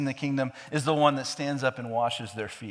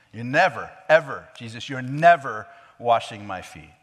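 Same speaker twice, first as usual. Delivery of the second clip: insistent refusal; 6 dB louder than usual. Retold or imitated. Peter insisting, acted.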